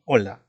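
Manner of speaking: "hola" said as "ola", with no H sound at all; silent H. Shown as a demonstration. Teacher showing students that the H in "hola" is silent. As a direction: drop the H in "hola" and start on the vowel. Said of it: "no se pronuncia porque la H es muda".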